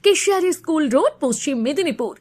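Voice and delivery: quick advert number readout; hard sell ad. Acted. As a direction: rattle off the numbers fast. Address and phone numbers in ad. (দ্রুত বিজ্ঞাপনী নম্বর পাঠ)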